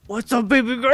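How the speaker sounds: hammed-up superhero flirting; bad Batman voice. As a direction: put on a silly mock Batman, barely holding it together. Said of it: "I can't do the voice".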